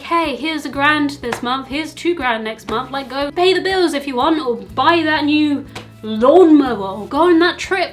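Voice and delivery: picture handing over money gladly; imagined happy gift. Retold or imitated. Daughter imagines giving parents money, eager and loud. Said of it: "I would love to be able to be like".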